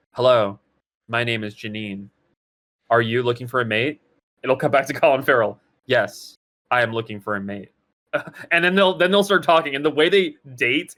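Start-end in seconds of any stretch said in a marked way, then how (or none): 0.1-4.0 lower, emotionless monotone with pauses; deadpan robotic. Shown as a demonstration. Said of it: "Everyone in the movie talks like this". 5.9-7.7 awkward flat movie acting; deadpan robotic. Shown as a demonstration. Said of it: "Everyone in the movie talks like this".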